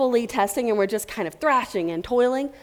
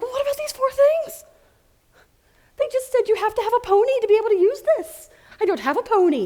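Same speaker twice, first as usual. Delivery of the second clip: much higher, louder indignant questioning; mock incredulous; 12 semitones higher, 3 dB louder than usual. Tester confronting developers about skipped items, mock incredulous. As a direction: play the baffled tester demanding answers.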